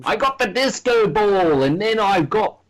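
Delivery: hammed-up cartoon British accent; quick British impression. Co-host joining in on the disco ball, high fake British accent. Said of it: "British real quickly".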